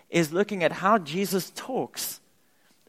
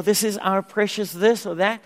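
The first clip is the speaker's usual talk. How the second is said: mock wrong answer; 4 semitones higher, 4 dB louder than usual.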